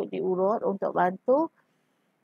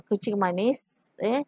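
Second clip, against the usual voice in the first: burp breaking into the words; words cut by a burp; talking while burping; 4 dB quieter, slower than usual. Real, not acted. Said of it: "sorry, eh, sendawa pula".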